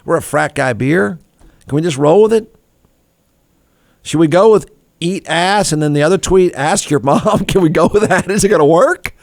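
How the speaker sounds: lightly voiced boss pleading with his team; a hint of a nervous boss asking for help; imitating the boss. Boss asks the team for help, lightly imitated. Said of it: "The boss says".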